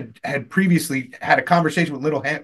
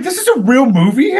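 mock amazement; 9 semitones higher, 5 dB louder than usual. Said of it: "I was like".

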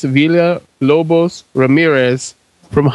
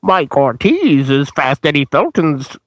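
lightly voiced masked villain; a hint of a menacing villain announcer; Bane voice. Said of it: "I just like doing the Bane voice".

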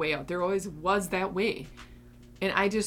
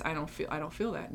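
a quick, quieter doubting inner part; 5 dB quieter, faster than usual. Retold or imitated. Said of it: "And then my other parts".

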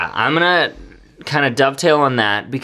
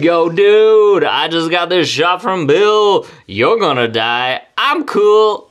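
excited bragging; 5 semitones higher, 4 dB louder, slower than usual. Retold or imitated. Friend bragging while drunk.

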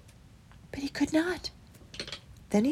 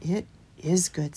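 earnest; 3 semitones lower than usual. Acted. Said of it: "said Broccoli earnestly".

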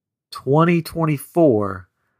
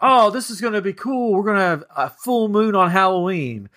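mock excited; 6 semitones higher than usual. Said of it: "'Cause everybody's like".

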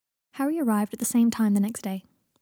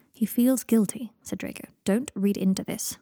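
slow; slower than usual. Acted. Draco cautioning Pansy.

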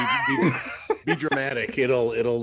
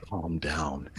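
boss saying calm down; 5 semitones lower, 8 dB quieter than usual. Retold or imitated. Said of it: "kinda looked over at me and said".

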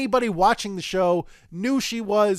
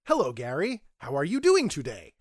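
lower, measured formal greeting; lightly put-on formal reply, pitched lower; imitated stranger's greeting; 5 semitones lower than usual. Podcast guest posing as co-host, lightly put-on formal greeting. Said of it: "Or no, no, even in a different accent".

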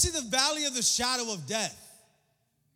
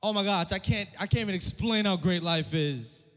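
lightly mocking an all-is-great caption; mock cheery post; 7 dB louder than usual. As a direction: gush like a fake happy feed. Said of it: "Just, like, spat out".

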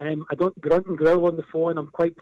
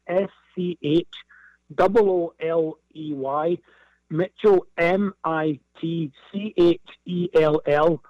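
spelling out letters; slower than usual. Shown as a demonstration. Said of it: "I'll spell that for people".

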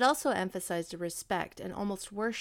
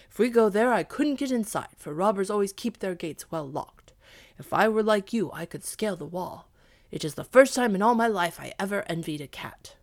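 loud gruff complaint; lamenting dog; 8 dB louder than usual. Acted. Dog laments he can't climb walls, loud and gruff. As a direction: complain loudly as the envious dog.

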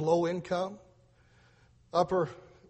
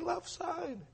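put-on higher Lebanese-accented voice, first line slow; 12 semitones higher, 7 dB quieter than usual. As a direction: correct him in a Lebanese accent. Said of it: "And he talks like that".

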